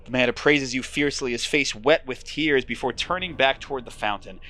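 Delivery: steady storyteller read; moody game narration; story narration. A narrator's reading. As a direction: draw the listener into the fog. Narration continues.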